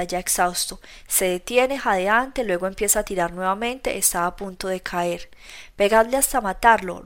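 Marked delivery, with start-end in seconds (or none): 5.8-7.0 roar. Acted. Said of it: "ruge mi Colca".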